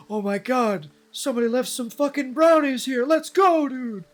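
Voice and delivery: loud, high hammed-up stoner thrill; mock stoner excitement. Streamer voicing stoner who finds brownies, loud high hammed-up glee. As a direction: squeal over the free brownies as the stoner.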